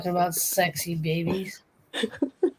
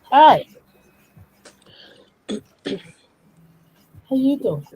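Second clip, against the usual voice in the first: high playful flirty greeting; a mock seductive hello; put-on sexy voice; 6 semitones higher, 9 dB louder than usual. Dared to show sexy voice.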